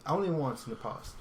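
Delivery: put-on British accent; British accent on a dare. Podcaster admitting to spoofing an account, attempted British accent. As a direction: answer in an amateur British accent. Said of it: "I'll speak in a British accent".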